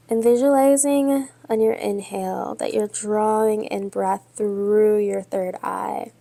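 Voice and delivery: measured yoga-teacher cueing with long pauses; guided yoga meditation. Real, not acted. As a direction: guide them steadily through breath and pose, leaving space between phrases. Leads yoga and breathing meditation.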